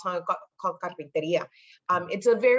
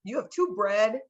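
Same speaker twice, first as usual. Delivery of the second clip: a touch higher, baffled; puzzled inner voice; 3 semitones higher than usual. Retold or imitated. Girl thinking back at the kids, mildly puzzled. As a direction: wonder why they judge. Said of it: "in my head, I'm like".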